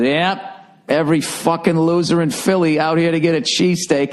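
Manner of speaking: put-on a lightly done loud drunk buddy. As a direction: slur it a little, like a loud drunk friend. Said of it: "like way too loud, like drunk voice".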